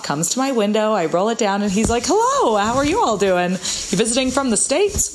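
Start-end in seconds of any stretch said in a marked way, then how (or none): 2.1-5.1 put-on Irish accent. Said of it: "said in an Irish accent, which I can't do".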